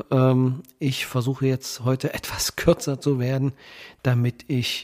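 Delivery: blocked nose from a cold, nasal. Real, not acted. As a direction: speak stuffy-nosed with a head cold. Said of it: "mit meiner nasalen Stimme".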